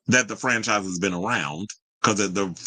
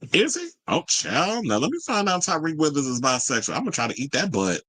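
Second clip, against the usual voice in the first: giddy excitement; 5 semitones higher than usual. Retold or imitated. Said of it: "He said".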